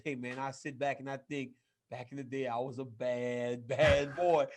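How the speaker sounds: a hint of a deep Southern Undertaker, drawn out slowly; deep Southern accent. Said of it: "in that deep Southern, you know, accent".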